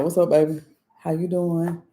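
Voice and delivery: softening, caring phone voice; tone turned sweet. Retold or imitated. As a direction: check in gently on your baby. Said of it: "his whole tone".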